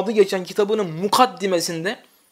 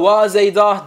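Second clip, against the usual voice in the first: mournful cry; 6 dB louder, slower than usual. Shown as a demonstration. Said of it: "üzülerek veya da bazen de ağlayarak".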